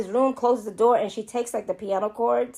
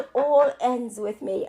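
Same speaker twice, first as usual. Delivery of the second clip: laughing through a put-on British accent; retry the line in British, giggling; mock British accent. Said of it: "I'm saying it wrong".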